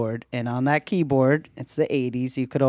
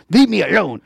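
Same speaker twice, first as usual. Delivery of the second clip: put-on higher, louder childish whine of a cross girl; imitating annoyed child; 6 semitones higher, 7 dB louder than usual. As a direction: whine it like a fed-up kid. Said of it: "she's like".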